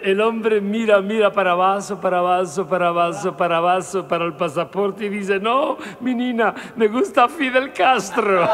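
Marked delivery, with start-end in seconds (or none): 5.4-8.5 customer punchline. Acted.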